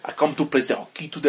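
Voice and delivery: put-on French-accented English; lightly hammed French accent. Shown as a demonstration. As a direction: do a mock French hockey player. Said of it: "if I were to do a French accent".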